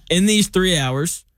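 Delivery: eating while talking; mouth full. Real, not acted. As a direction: talk through a mouthful. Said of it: "talking with my mouth full".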